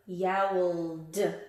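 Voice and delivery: Yowled said with a slight extra duh at the end; Yowled with an audible d release; sounded-out d ending. Shown as a demonstration. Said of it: "or d?".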